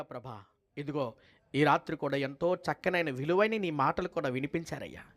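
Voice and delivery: earnest pastor's prayer to God; closing prayer. Acted. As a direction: pray aloud for the family, reverently. (కుటుంబం కోసం భక్తితో ప్రార్థన)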